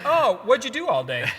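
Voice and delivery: light, curious asking; innocent question. Retold or imitated. Husband asking wife innocently, light curious tone. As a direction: ask it casually, no edge. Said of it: "I said it like".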